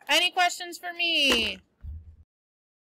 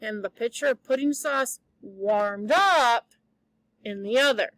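reading a novel aloud to the class; story reading. A narrator's reading. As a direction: tell the story lively, voicing the characters. Teacher reads novel to class.

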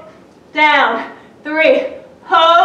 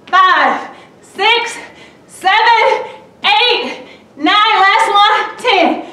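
higher, driving coach encouragement; psyching myself up; 4 semitones higher than usual. Real, not acted. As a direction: pump everyone up to finish. Pushing through the final reps.

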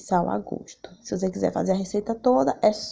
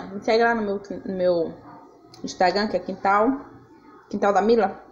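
mouth full. Real, not acted. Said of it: "Desculpa eu tá falando com a boca cheia".

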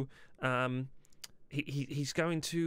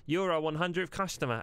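demonstrated shout; 5 semitones higher than usual. Shown as a demonstration. Boss rehearsing Larry's signal to shout, raised announcing call. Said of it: "so shout".

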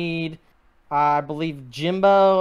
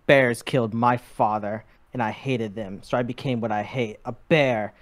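mock-solemn revenge monologue, a touch lower; bear villain speech; 3 semitones lower than usual. Bear gunman announcing his revenge, mock-grave villain voice. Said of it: "just be like".

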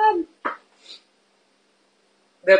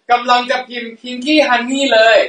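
laughing while speaking; 2 semitones higher, faster than usual. Real, not acted. Laughs at own slip.

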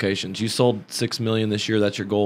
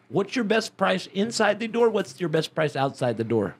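mock polite dad; 7 semitones higher, 3 dB quieter than usual. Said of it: "he said".

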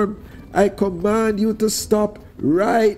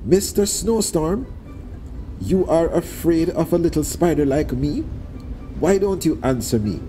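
taunting call; 9 semitones higher than usual. Acted. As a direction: goad the storm into answering. Anansi taunts the snowstorm.

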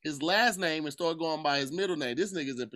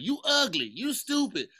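higher-pitched mocking imitation of an insult; 6 semitones higher, slower than usual. Castmate imitating a colleague's usual put-downs, mock insult. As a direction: jab it out in a swooping mimic voice. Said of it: "or she's like".

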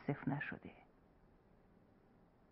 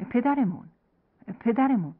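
frightened cry; 5 semitones higher, 5 dB louder than usual. Acted.

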